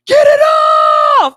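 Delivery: high, loud panicked yell in imitation; imitating a panicked kid. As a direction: yell it like a scared boy with a bug on him. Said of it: "the face he made when he said".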